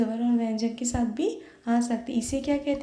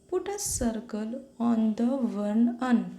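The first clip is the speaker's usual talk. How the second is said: very slow, word by word; slow teacher read-aloud; very slow instruction; much slower than usual. Shown as a demonstration. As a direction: spell out the instruction slowly. Teacher repeating instruction in English.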